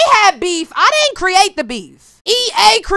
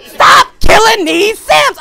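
high, loud whiny complaint from an overworked reaper; fed-up Grim Reaper; 6 semitones higher, 5 dB louder than usual. Retold or imitated. Gamer voicing the exhausted Grim Reaper, loud whiny rant. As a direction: wail it like a worker begging for a break. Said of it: "The Grim Reaper said".

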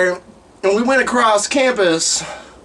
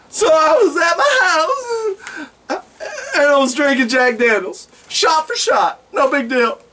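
mock crying. The speaker retelling his night to friends, mock tearful. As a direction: blubber through the story.

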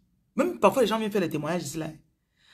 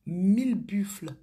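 "Mille buffles" whispered very slowly; hushed whisper of "mille buffles", as if telling a secret; awed whisper; 3 semitones higher, much slower than usual. Acted. Preacher echoes number in awe.

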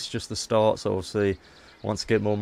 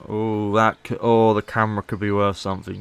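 louder, eager "camera could be worth something"; excited realisation; 5 dB louder than usual. Real, not acted. Player spotting loot, excited realisation. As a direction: spot a treasure and blurt it out.

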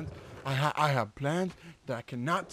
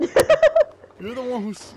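drawn-out loud; 8 semitones higher, 13 dB louder, much slower than usual. Acted. Repeats line, drawn out and loud.

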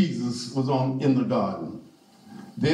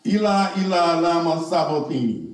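cried out; 2 semitones higher than usual. Acted. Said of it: "cried with a loud voice".

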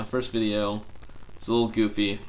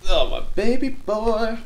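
high, louder, slow cooing at the cat; pet talk; 12 semitones higher, 8 dB louder, slower than usual. Real, not acted.

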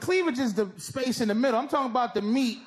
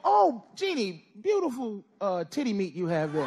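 mock leering compliment; 3 semitones lower than usual. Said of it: "walk in and go".

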